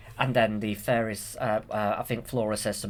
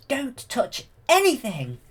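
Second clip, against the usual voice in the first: loud, high, slow warning; warning shout; 12 semitones higher, 6 dB louder, slower than usual. Retold or imitated. Fairies warning Aurora from afar, loud high slow warning.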